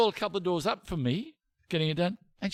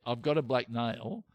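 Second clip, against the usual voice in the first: slow, measured request, pitched a little low; slow and careful; 4 semitones lower, 4 dB quieter than usual. Retold or imitated. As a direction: spell it out slowly for someone with little English. Slowly addressing non-native English speaker.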